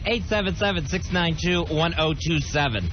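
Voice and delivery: radio show opener. Acted. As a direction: open the show live on air. Opens the live radio show.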